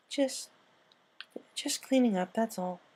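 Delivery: a hint of an embarrassed Pinkie brushing it off; sheepish. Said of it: "Pinky replied sheepishly".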